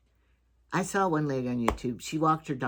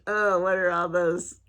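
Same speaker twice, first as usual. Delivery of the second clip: put-on imagined child voice; 4 semitones higher, slower than usual. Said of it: "Hillary is looking at me thinking".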